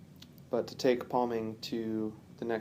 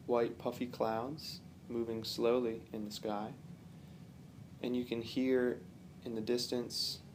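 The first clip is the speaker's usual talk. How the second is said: calm, unhurried meditation guide with long pauses; relaxed guided-relaxation delivery, phrase by phrase; guided visualization; 6 dB quieter than usual. Real, not acted. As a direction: gently lead the listener through imagery, pausing often.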